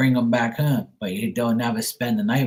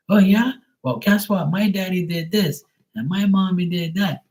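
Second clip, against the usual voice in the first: put-on child's voice; 6 semitones higher than usual. Second kid topping the first.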